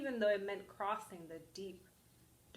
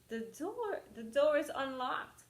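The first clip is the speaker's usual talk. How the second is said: put-on old granny voice; 5 semitones higher than usual. Granny answers the door.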